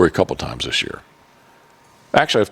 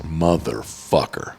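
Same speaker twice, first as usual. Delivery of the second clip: retold angry curse; 3 semitones lower, 6 dB quieter, much slower than usual. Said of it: "Like, I was angry".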